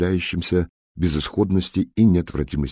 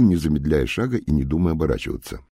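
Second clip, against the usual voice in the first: usual speaking voice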